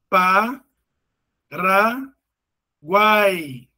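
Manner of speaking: "Pa, ra, guai" with long pauses between syllables. Shown as a demonstration. Teacher illustrating a triphthong, "Pa, ra, guai" syllable by syllable. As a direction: break "Pa, ra, guai" into three separate beats. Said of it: "na mesma sílaba".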